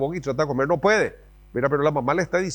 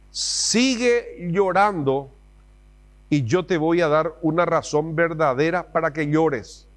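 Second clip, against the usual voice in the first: a hint of a stern mother; threatening mom; slower than usual. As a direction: menace like an angry mother. Mom's threat, acted.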